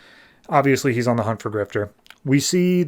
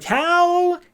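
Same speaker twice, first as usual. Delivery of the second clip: losing it; 2 semitones higher than usual. Retold or imitated. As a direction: blow up at the so-called friend. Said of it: "Arsenal just loses it".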